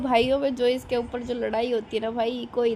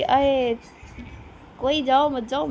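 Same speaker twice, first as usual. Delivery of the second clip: retold child; 2 semitones higher, 5 dB louder, slower than usual. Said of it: "तनिक ने मारी entry".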